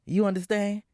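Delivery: stern mother, final word; Florence laying down the law. Acted. Mother forbidding the choir, stern and final. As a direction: shut it down like an angry mom.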